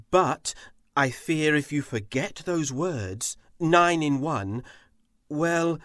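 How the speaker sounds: a touch of a stern god; somber stern Shao. Acted. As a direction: warn her seriously, weighing each word. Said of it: "he looked somehow somber and stern".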